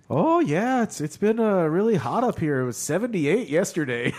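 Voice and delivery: high, bright small-talk voice imitating a lady; chatty Canadian lady. Canadian customs lady chatting about heat, high mock voice. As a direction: chirp it like a friendly customs lady. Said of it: "the lady being like".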